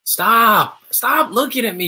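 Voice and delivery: high, loud pretend fright; mock scared. Pretending to be scared of the staring doll, high mock fright. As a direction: shriek it like you're spooked. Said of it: "You're scaring me".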